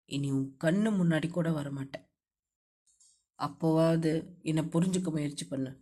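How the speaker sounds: hero angry at first, then hurt, low male voice; anger fading to hurt. A narrator's reading. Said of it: "கோபத்தில் ஆரம்பித்து ஆதங்கத்தில் முடித்தான்".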